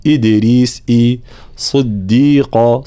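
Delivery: "إدريس" and "صديق" with clear i; full kasra. Shown as a demonstration. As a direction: stretch the i sounds in "صديق". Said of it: "تحقيق حركات الكسر". (تحقيق الكسر في إدريس وصديق)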